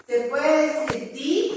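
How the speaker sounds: English "di" with a clear long i; "di" said like dee. Shown as a demonstration. Teacher modelling "di" for the class, long i. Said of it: "díganlo conmigo".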